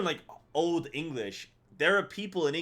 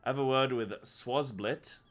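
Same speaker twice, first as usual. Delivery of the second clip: put-on lightly done English tutor accent listing tasks. Streamer reading the innkeeper's task list in an English accent. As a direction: read it like a chatty English innkeeper. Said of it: "the English actually do speak like this".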